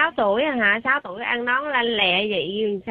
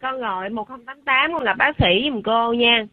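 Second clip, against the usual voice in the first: scolding snap. Real, not acted. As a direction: snap it out like a stern teacher. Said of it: "đừng có nạt".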